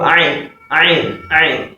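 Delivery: "Ain" pushed thick from the throat; "Ain" with a thick Arabic throat onset; thick, breathed-out Ain. Shown as a demonstration. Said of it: "You want to breathe out heavily".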